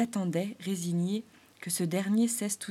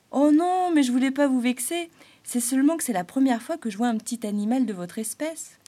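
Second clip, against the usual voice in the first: much higher, louder flustered voice; Arlequin apologising; 5 semitones higher, 7 dB louder than usual. Acted. Clown apologising to the springtail, flustered. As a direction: hurry to apologise.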